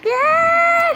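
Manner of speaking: malakas at mataas na "Yes"; masayang sigaw. Real, not acted. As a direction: sumigaw sa tuwa. Panalo sa laro. (tuwang-tuwang sigaw)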